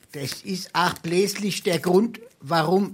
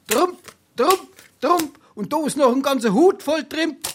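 louder and higher, crowing over each trump; triumphant trumps; 6 semitones higher, 5 dB louder than usual. Acted. Card player crowing at the table, triumphant and loud. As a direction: slap the cards down and gloat.

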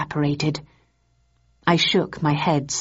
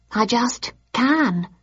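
simply; 6 semitones higher, much slower than usual. Acted. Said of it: "she answered simply".

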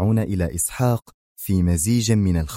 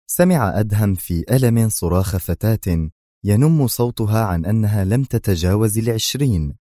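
usual speaking voice

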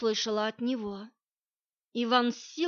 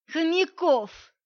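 cheerful announcement; 6 semitones higher, 6 dB louder, slower than usual. A narrator's reading. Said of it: "обрадовал меня мужик и захохотал".

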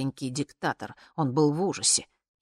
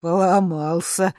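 slow, louder gleeful call; gleeful shout; 3 semitones higher, 8 dB louder, slower than usual. Acted. Dictator shouting back to the guards, gleeful and slow. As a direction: call it back happily, drawn out. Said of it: "радостно закричал диктатор".

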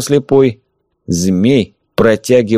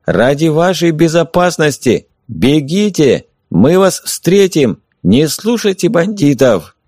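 higher, urgent call from outside; 6 semitones higher, slower than usual. A narrator's reading. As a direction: urge her to run to them. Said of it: "Снова позвали снаружи".

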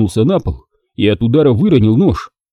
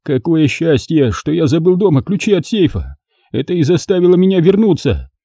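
lamenting father; 6 semitones higher than usual. Acted. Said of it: "причитал сердобольный отец".

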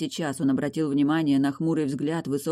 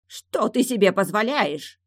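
near shriek; 5 semitones higher than usual. A narrator's reading. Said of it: "Почти взвизгнул он".

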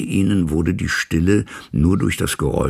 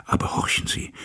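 hushed whisper; 5 dB quieter than usual. Acted. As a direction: whisper it, nearly no voice. Servant urges lawyer to listen. (geflüstert, fast tonlos)

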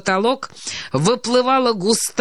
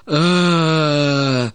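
long low groan of retching; 4 semitones lower than usual. A narrator's reading. Myshlaevsky sick over the sink, groaning.

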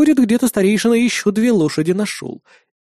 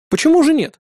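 mocking, pitched high; smirking; 11 semitones higher, 4 dB louder than usual. A narrator's reading. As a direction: scoff at him with a smirk. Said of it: "хмыкнул я".

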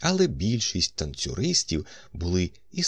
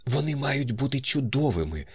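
high-pitched female character voice; higher voice for a woman in the story; woman character's voice; 8 semitones higher than usual. A narrator's reading. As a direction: voice an actress chiming in, pitched well up. Narrator voices Jane Helier's speech.

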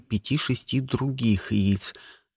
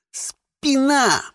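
higher, pained groan; moaned in pain; 11 semitones higher than usual. Acted. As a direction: groan the word out. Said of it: "простонал я".

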